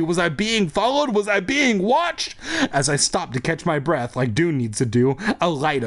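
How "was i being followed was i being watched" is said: rising fear. A narrator's reading. Mounting fear in story.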